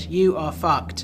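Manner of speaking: drawn out slowly, each word pressed; slow menacing threat. Acted. Warning James they'll be exposed, slow and menacing. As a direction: spell out the threat, slow and hard. Threatening colleague over assassination.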